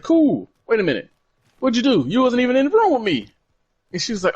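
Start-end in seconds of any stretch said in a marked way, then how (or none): 0.0-3.3 higher, mock double take; mock suspicious. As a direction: catch yourself mid-cool, suspicious. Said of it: "I was like".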